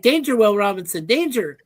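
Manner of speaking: a hint of a robot voice; lightly voiced robot warning. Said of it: "you were going like".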